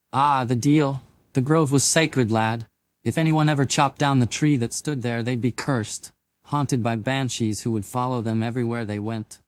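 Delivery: lightly voiced Scottish elder; old Scotsman storyteller. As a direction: tell it like an old Highland grandfather. Ewan tells the legend.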